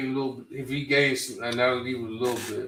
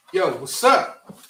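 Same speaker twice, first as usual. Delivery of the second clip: slow, loud, higher challenge; mock greeting; 6 semitones higher, 8 dB louder, slower than usual. Goons stepping to the rapper, slow and loud. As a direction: drag out a tough hello. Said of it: "Was like".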